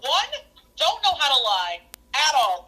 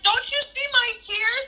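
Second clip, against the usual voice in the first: high, drawn-out mock-tearful plea; fake crying; 7 semitones higher, slower than usual. Kindergartner trying to convince a doubting teacher, fake crying. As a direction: imitate a kid insisting the tears are real. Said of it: "the fake crying".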